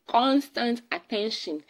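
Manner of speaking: "constant" pitched high and stretched out slowly; slow repeat with emphasis on "constant"; stress on constant. Real, not acted. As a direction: punch the word "constant", taking your time. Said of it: "The emphasis is on the constant".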